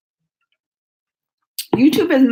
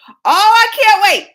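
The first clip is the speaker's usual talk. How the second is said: louder, higher, laughing glee; gleeful anticipation; 7 semitones higher, 5 dB louder than usual. Retold or imitated. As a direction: giggle with excitement. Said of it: "I was just thinking".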